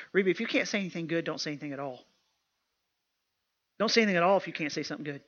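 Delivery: rattled off fast, like a well-worn saying; mama's stock reprimand. Retold or imitated. Mama correcting her daughter, lightly imitated rapid scolding. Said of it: "I heard my mama say this".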